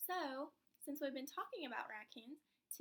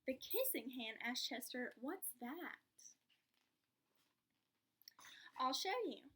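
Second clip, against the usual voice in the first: lively storybook read-aloud; reading to children. Acted. Teacher reading to a child, lively storybook voice. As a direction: bring the picture book to life for the class.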